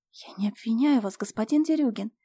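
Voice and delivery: ordinary delivery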